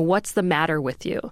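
plain

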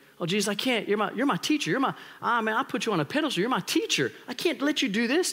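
stammering, protesting tone, tripping over the words. Acting out Peter refusing to let Jesus wash his feet: acting as Peter. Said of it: "There's Jesus washing, like".

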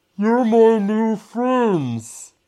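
very high voice, muffled as if through glass. Narrator voicing someone outside the glass the players are in, muffled voice from outside. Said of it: "you hear a muffled voice from the outside say".

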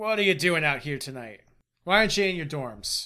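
fast character voice. Storyteller voicing a woman approaching with a warning look, warning tone. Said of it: "She is giving you a warning look".

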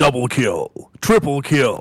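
deep, drawn-out video game announcer voice. Doing the kill announcer's calls after being asked: deep booming announcer voice. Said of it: "Can you do the deep booming?".

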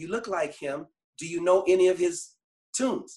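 plain

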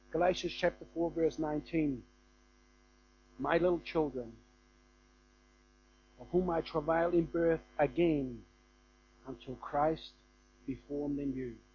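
moved, heartfelt, emotional reading. Reading out a final scripture after apologizing for feeling emotional: emotional. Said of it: "I'm just a bit emotional here today".

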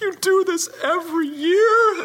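weepy sobbing, very high, very slow and drawn out. Retelling a partner's reaction to a lost season: imitating Juliet crying. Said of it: "she's, like, crying".

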